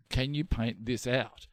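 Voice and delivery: slow, careful request. Retold or imitated. Repeating request to salon worker.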